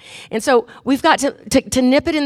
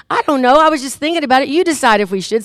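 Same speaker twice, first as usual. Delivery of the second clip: higher, offhand backpedaling; feigned innocence; 4 semitones higher than usual. Acted. Wife dodging her husband's question, innocently noncommittal. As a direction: pass the decision off innocently.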